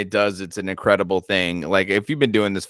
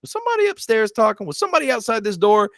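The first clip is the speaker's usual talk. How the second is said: nervous; 12 semitones higher, faster than usual. Retold or imitated. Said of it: "stand there for a second".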